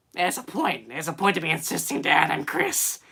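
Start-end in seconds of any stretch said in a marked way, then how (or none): 2.3-3.0 high-pitched cartoon teen voice; Chris Griffin impression. Streamer attempts the cartoon teen son voice. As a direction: try a cartoon teen, comes out like a smoker. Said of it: "I sound like a forty-year-old smoker".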